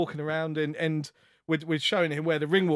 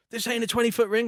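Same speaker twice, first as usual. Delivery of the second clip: louder, higher mock complaint; higher, louder annoyed protest; imitating Jake; 9 semitones higher, 5 dB louder than usual. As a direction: do an indignant Jake protesting the ring. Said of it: "he's like".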